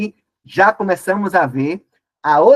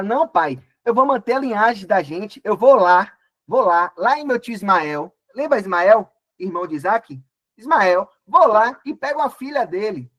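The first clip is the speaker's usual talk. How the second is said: higher, eager promise; eager reassuring son; 4 semitones higher than usual. Acted. Esau assures his father he will keep the line, higher and eager. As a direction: sell the plan to father like a keen young man. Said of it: "ele vai e fala".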